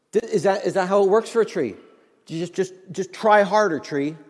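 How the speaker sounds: ordinary talk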